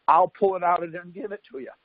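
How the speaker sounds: high, cocky dare to the cop; daring the cop, pitched high and taunting. Retold or imitated. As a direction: challenge him to go get it. Defying the cop.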